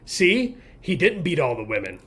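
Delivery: high mocking "See, see" taunt; mock gloating. Mocking critics who gloat about a weak male lifter. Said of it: "everybody can say".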